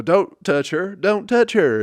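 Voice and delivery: protesting friends shrieking at the auction man; mock friends yelling. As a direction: squeal it like panicked friends. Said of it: "her other fucking friends start go".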